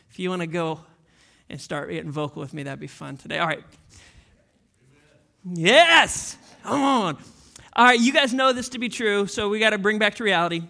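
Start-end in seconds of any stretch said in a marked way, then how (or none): 5.4-7.2 calling out. Acted. Pastor calling for response.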